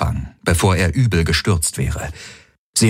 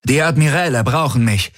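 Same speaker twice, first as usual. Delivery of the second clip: higher-pitched urgent instruction; urgent order; 6 semitones higher than usual. A narrator's reading. Tari turns to Hox before leaving, instructing urgently. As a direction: speak up high, pressed by duty. Officer giving orders under attack.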